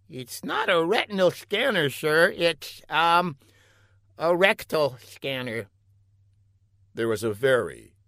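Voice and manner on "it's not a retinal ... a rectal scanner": high-pitched, halting lackey voice; hesitant scientist underling. A narrator's reading. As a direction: break bad news to the boss gingerly.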